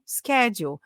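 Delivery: "schedule" beginning with SK; American pronunciation. Retold or imitated. Quoting people heard saying it, American SK in "schedule". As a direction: say "schedule" with a hard K after the S. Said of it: "Schedule é a pronúncia americana".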